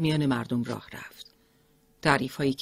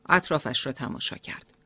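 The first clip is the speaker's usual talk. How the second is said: ordinary delivery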